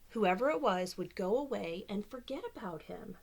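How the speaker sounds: lively storybook reading voice; reading to children. Acted. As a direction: read it like bedtime story time. Reads picture book aloud.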